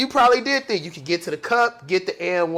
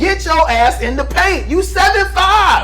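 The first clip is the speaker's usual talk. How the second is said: raised voice, calling out a player; heated rant; 6 semitones higher than usual. Real, not acted. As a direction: yell it like a fed-up fan. Yelling advice at Wembanyama.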